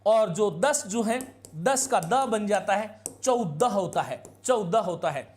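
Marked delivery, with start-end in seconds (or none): 3.2-5.3 चौदह said as chau-dah, teacher's correct form; correct Hindi numeral. Shown as a demonstration. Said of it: "ये चौदह नहीं होता है".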